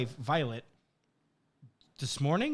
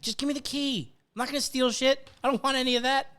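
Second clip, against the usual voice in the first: higher, exasperated pleading; mock pleading; 8 semitones higher than usual. Shopper begging the Walmart clerk for the key, higher and exasperated. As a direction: beg the clerk, fed up. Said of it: "same as when I'm in Walmart".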